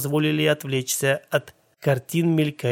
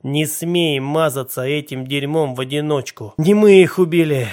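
furious yell, far louder; angry shout; 5 dB louder than usual. Acted. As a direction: yell it back at your brother. Shouting back at brother.

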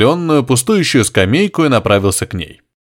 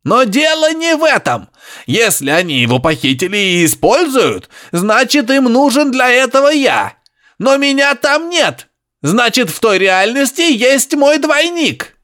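high grunting professor; 11 semitones higher than usual. Acted. Professor insisting to Harry over radio, high grunting. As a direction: press it on him, high and piggy.

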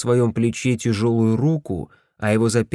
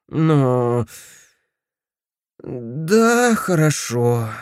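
unhappy; 3 semitones higher, much slower than usual. A narrator's reading. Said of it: "произнёс он несчастным голосом".

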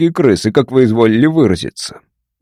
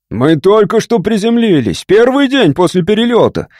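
вскрик; 7 semitones higher than usual. A narrator's reading. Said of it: "вскричал капитан".

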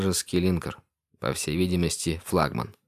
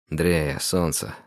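tender; 3 semitones lower, slower than usual. Acted. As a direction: gently reassure her. Капитан ласково к Дрее. (ласково и мягко)

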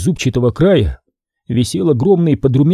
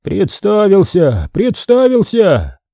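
higher, slow wailing repetition, rising on the second; repeating lament; 6 semitones higher, slower than usual. A narrator's reading. Archimandrite repeats the news at the door, slow rising lament. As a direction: slowly lament the death, climbing higher. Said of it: "Он повторял одно слово".

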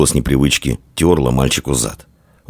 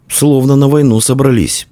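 higher-pitched musing to oneself; inner thought; 9 semitones higher, 3 dB louder than usual. A narrator's reading. Inner thought voiced in narration.

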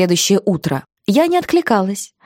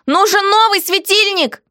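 heroine's quoted voice, higher; defiant heroine; 12 semitones higher than usual. Acted.

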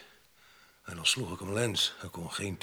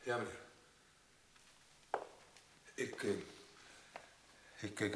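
timid reply; 11 dB quieter than usual. Acted. Cowed witness answers.

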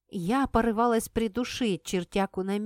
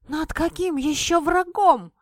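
шипит; 8 semitones higher, 6 dB louder than usual. A narrator's reading. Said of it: "зашипела я".

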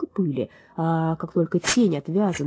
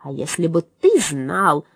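angry; 3 semitones lower, 3 dB louder, slower than usual. Acted. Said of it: "рассердился Джерри".

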